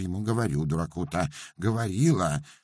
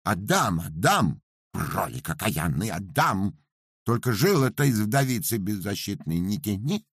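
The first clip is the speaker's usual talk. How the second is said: rapid guilty pleading; 5 semitones higher than usual. Acted. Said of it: "заговорила быстро-быстро, но уже с повинной интонацией".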